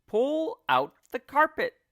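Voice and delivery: high, loud command; shouted order. A narrator's reading. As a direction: bark the order to the crowd. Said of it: "shouted Mugglewump".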